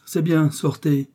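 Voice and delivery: curt, slow and hard; old master dismissing his cook harshly; harsh dismissal. A narrator's reading. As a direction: send her away harshly. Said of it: "répondit durement le vieillard".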